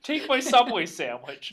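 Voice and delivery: high, loud desperate offer; hammed-up cabbie bargaining for mercy; mock begging. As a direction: plead with pitch and volume up. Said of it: "begging for him to stop".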